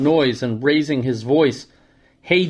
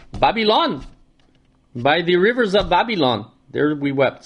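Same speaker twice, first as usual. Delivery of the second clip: a very bad, lightly done Rasta accent; half-hearted Rasta accent on the song line; joking Rasta accent that barely shifts from his own voice. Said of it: "Very bad, uh, Rasta accent".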